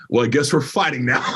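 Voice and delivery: laughing aside. Retold or imitated. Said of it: "I'm like".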